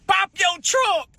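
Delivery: high, slow robber voice; mock robber demand. Imitating a hungry robber: high, slow "Pop your trunk". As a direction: drag out "pop your trunk" like a stick-up man. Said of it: "They gonna say".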